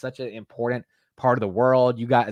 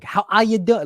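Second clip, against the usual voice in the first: clumsy British accent, higher and louder; attempted British accent; 9 semitones higher, 5 dB louder than usual. Shown as a demonstration. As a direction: put on a shaky-skilled British accent, saying "ya" for "you". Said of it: "you say the ya".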